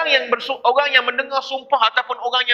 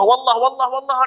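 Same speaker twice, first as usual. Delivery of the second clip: mocking casual oath; 2 semitones higher than usual. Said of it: "Jangan tiru cara dia yang main sumpah".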